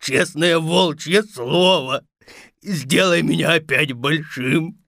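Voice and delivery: understated pleading whine; tearful wolf. Acted. Shrunken wolf to Vasya, tearful pleading. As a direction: beg with a touch of tears. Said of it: "заплакал волк".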